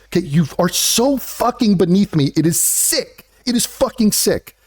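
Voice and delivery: exasperated, acted tirade with punched insults; mock irate rant. Jaded creator answering commenters, acted angry rant. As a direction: spit out each insult in hammed-up disgust.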